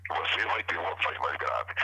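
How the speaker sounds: low, deep demo voice. Shown as a demonstration. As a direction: drop the voice low. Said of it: "Se alguém precisar de uma voz mais grave".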